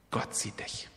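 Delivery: whispered softly like a secret. Acted. Preacher whispers God's promise to each listener. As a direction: lean close and breathe the words.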